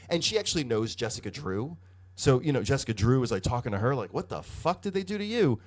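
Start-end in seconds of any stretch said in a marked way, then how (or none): 4.1-5.6 higher-pitched retold incredulous question; appalled disbelief. Jessica confronting her altered friend, appalled disbelief. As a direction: act out a horrified friend's question.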